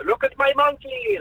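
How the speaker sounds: put-on slow, high German accent shout; hammy German accent, drawn out. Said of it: "his own German thing".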